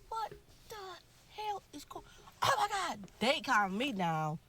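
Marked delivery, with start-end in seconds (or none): 0.1-3.0 retold shock. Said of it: "I'm like".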